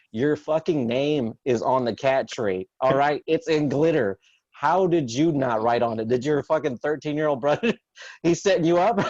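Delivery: put-on half-joking rant at a six-year-old; comic fake outrage at a glittery lie; mock exasperated scolding. Dad scolding daughter in retold quote.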